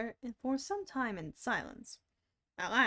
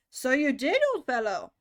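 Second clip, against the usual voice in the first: cheerful shout; 2 semitones higher, 9 dB louder than usual. Acted. Crowd cheering Bill.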